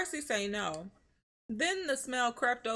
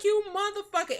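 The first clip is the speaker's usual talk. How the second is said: mock angry; 10 semitones higher, 4 dB louder than usual. Cursing out her partner.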